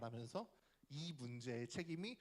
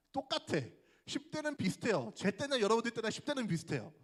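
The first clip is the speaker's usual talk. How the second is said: emphatic declaration; 6 semitones higher, 9 dB louder than usual. Real, not acted. Preacher stresses teens are alike.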